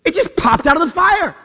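high, slow playing-dumb voice; mock innocent excuse. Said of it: "they go".

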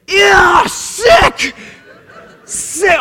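loud, high squeal of disgust; mock grossed-out shout. Boyfriend seeing girlfriend's bloody nose, hammed-up disgust. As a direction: recoil loudly like a kid. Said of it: "And I went".

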